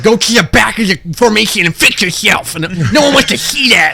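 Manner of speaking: lightly voiced drill sergeant; mock drill sergeant. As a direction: scold the recruit. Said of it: "she was like".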